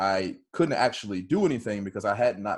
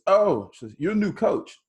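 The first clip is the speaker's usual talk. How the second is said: imitating Bailey's realization; 9 semitones higher, 3 dB louder than usual.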